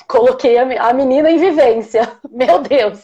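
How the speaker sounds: real laughter breaking through the words; laughing. Real, not acted. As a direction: laugh as you tell it, amused at yourself. Mother laughing at her own story. (rindo de verdade enquanto conta)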